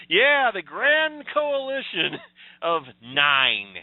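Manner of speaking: slow, mocking, every word dragged out; sarcastic drawl. Real, not acted. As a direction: sneer at how tiny it is. Sarcastic jab at the coalition.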